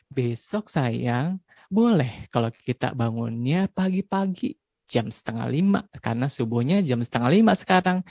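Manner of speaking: put-on calmly prepare the child the night before; gentle bedtime talk. Shown as a demonstration. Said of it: "kita harus kayak gini". (ayah bicara lembut dan pelan pada anak malam hari)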